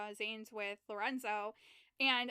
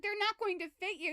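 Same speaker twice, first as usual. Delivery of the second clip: high woman voice; 9 semitones higher, 4 dB louder than usual. Retold or imitated.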